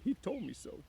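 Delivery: high, slow simple-minded big man; childlike worried Lenny; Lenny's voice. A narrator's reading. Lenny voiced in read novel.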